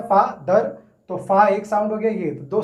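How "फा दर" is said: "फा, दर" as two separate sounds with a break; split into syllables. Shown as a demonstration. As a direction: break the word into "फा" and "दर". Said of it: "इसमें दो sound आ रहा है". ("फा" और "दर" अलग-अलग बोलें)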